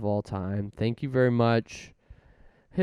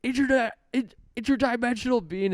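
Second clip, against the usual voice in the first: much higher, squeaky cry of interdimensional being; squeaky alien voice; 13 semitones higher, 4 dB louder, faster than usual. Retold or imitated. Retelling the Oz set, the cast points and squeaks in alarm. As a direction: shriek it like a startled cartoon alien. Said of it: "then they're like".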